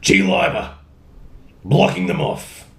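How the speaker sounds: lightly voiced chirpy girl; Mei voice. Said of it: "I do a really good May".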